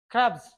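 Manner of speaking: ক্রাবস with the final s said as a buzzing z; ক্রাবস ending in a clear z; z sound on s. Shown as a demonstration. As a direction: end ক্রাবস on a voiced z. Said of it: "এস এর উচ্চারণ জ হবে".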